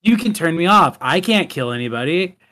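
a hint of harmless robot doll; lightly put-on innocent toy voice; Megan, unnatural voice. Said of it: "more of an unnatural voice".

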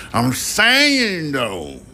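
tossing the phrase off in a silly high voice; squeaky playful voice. Acted. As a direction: jump way up into a playful falsetto. Playful repeat of catchphrase.

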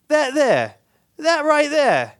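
captain pointing it out. Retold or imitated. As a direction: build up pointing at the shark.

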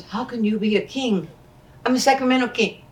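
a hint of Billy Crystal ribbing; mock Billy Crystal. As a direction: toss it off as a wisecrack. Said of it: "And he goes".

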